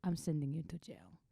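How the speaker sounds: whispered threat; commander whispering. Retold or imitated. Commander whispering a jail threat to his soldier. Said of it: "this close to me".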